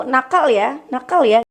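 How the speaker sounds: mild echo of the warning; what the child hears. Shown as a demonstration. Child's brain hearing only naughty, light mock echo. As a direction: repeat "nakal ya" as the brain hears it. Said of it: "yang diterima anak pun begitu".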